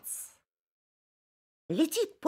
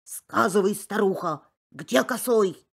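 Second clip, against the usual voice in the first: louder demanding wolf; wolf shouting at the pine, louder; 5 dB louder than usual. Acted. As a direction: bark the question. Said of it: "кричит сосне".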